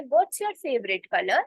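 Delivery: very slow, clear English demo; slow model sentence. Shown as a demonstration. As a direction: spell it out slowly for learners. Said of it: "तो आप क्या बोलोगे". (बहुत धीमे, साफ़ अंग्रेज़ी में)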